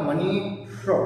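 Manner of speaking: मनीष split as "manee", then a curled-back "shr"; careful मनी, श्र with tongue pulled back; correct retroflex ष. Shown as a demonstration. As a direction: sound out the retroflex ending of मनीष separately. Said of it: "सही उच्चारण क्या होगा".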